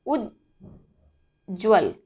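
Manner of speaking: उज्ज्वल drawn out very slowly, each sound apart; slow teacher's demo of उज्ज्वल; careful enunciation. Shown as a demonstration. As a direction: stretch out उज्ज्वल syllable by syllable. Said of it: "ध्यान से इसका उच्चारण करके देखेंगे".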